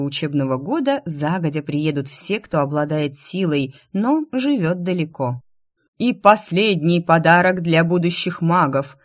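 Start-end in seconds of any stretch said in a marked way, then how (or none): 6.0-9.0 ringing, louder herald's announcement; fiery speech. Acted. King's herald addressing the crowd, fiery proclamation. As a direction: call it out to the crowd with fervour. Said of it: "продолжал свою пламенную речь".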